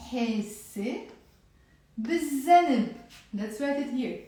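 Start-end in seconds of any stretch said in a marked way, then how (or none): 0.1-2.9 hesse, a pause, then bizanb with a long z and no l; merged sun letter. Shown as a demonstration. Teacher models the whole phrase, l merged into z. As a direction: hold the z in bizanb, giving it as biz-zaneb. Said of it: "the whole thing now will be pronounced as".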